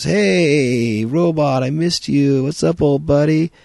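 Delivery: high, loud, overly chummy greeting; butter up the robot with a squeaky, loud buddy voice; fake-friendly guy. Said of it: "he says".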